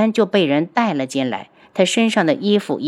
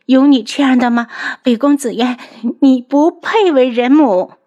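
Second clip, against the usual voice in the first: higher and louder, slowing on the final verdict; mocking scorn; 6 semitones higher, 4 dB louder than usual. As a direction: sneer the accusation at her. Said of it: "楚景儿嘲弄地看着他". (嘲弄而激愤，最后一句放慢)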